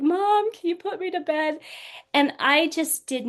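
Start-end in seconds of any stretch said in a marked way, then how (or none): 0.0-1.6 lightly voiced little girl, pitched higher; a hint of a tired child asking to be tucked in; little daughter. Small daughter tugging at mom's leg at bedtime, light childlike voice.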